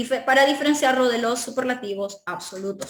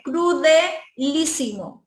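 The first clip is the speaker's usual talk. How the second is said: crudelísimo said slowly, syllable by syllable; slow model word; 3 semitones higher, slower than usual. Shown as a demonstration. Teacher modeling crudelísimo slowly for students. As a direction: spell out crudelísimo slowly for the class. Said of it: "De cruel".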